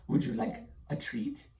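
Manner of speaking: high sly witch offer. Acted. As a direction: purr like a tempting hag.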